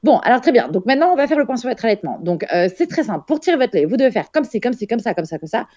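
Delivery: high, fast lecturing imitation; a hint of a patronising nurse lecturing a mother; mock condescending nurse. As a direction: rattle off rules like a know-it-all nurse. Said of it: "cette personne était en mode".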